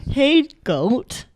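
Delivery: a hint of a chatty actor; lightly voiced, casual rapper-turned-actor. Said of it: "this is a rapper-turned-actor talking to a goat".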